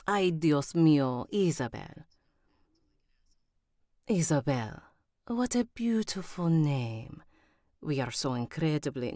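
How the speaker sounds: put-on reach for a Spanish accent; imperfect Spanish accent, still tinged with Italian; attempted Spanish accent. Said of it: "she's Spanish".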